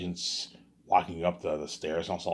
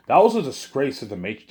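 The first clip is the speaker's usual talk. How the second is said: louder and higher, fed-up outburst; indignant rant; 7 semitones higher, 7 dB louder than usual. Real, not acted. Fan ranting about the Matrix sequel, indignant outburst. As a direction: let the outrage burst out on disgrace.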